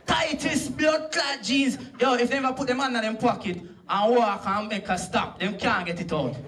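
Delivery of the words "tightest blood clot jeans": mock outrage. Stand-up mocking tight jeans.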